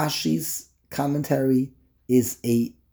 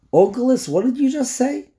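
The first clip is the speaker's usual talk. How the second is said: mock surprised question; 9 semitones higher than usual. Teacher addresses Onkelos in mock question.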